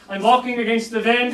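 put-on light German accent, w turned to v in wind; mock German, just a hint. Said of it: "I'll do it in a German accent".

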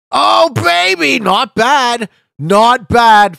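high, loud burst of celebration; thrilled, drawn-out cheer; real delighted shout. Real, not acted. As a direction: whoop at a great score. Celebrating a good score.

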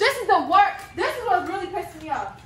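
laughing. Real, not acted. Laughing complaint about view.

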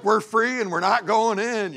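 high, loud mock cow voice; playful high-pitched defiance; defiant runaway cows. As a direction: play escaped cows crowing about freedom.

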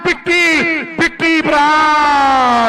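slow, stretched shout of the name; announcer shout. Real, not acted. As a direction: call the name out long. Commentator announces player loudly.

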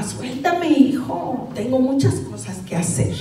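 a touch of desperate impatience; mild retold exasperation. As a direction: retell losing patience, without shouting. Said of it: "y me desesperaba".

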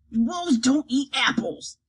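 slow, deliberate troll voice; troll Bork correcting. Acted. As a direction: correct them with dull certainty. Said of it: "Bork corrected".

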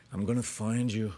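measured movie-hero threat, lightly imitated; understated impression of a menacing hero; Liam Neeson. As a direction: do the Irish action star's famous vow. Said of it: "I wanna hear the taken one".

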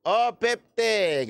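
slow, steadier call of the number; bingo caller. Shown as a demonstration. Repeating the drawn ball for viewers, slow caller voice. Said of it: "Ganito maglaro ng bingo".

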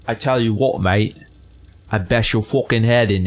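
put-on British tough-guy accent; mock British accent. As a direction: imitate a British bloke making threats. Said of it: "Does he talk like that?".

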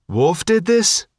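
a touch of outrage, drawn out; angry. A narrator's reading. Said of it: "Woodman said angrily".

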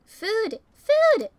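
rising excited cries of food; excited shout. Acted. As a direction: yell it out, thrilled.

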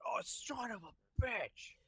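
slow whispered curse. Retold or imitated. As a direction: breathe the curse out, deflated. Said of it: "he's just like".

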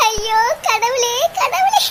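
crying lament. Acted. Mother crying to God about her family, tearful wail. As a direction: sob the words up to God. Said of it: "நல்ல அழுடி".

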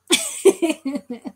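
put-on laugh in imitation; imitated laugh. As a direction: mimic a friend's laugh. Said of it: "Kaino is always like".

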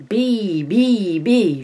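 put-on frightened child. Child sees the bee.

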